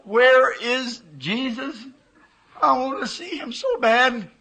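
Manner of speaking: ache for him as you ask; tearful longing. Retold or imitated. Longing plea in the vision.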